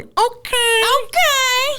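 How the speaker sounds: high, drawn-out flirty okay. Shown as a demonstration. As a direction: agree sweetly, stretching it out. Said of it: "my impression of myself on a date".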